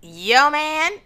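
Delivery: high, loud disbelieving question; incredulous. Real, not acted. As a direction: tease her with disbelief. Teasing disbelief at friend's man.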